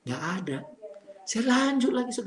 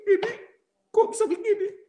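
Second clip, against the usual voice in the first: high, loud tearful protest; crying; 10 semitones higher, 6 dB louder than usual. Retold or imitated. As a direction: act out weeping in disbelief. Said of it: "sambil nangis saya lihat begini".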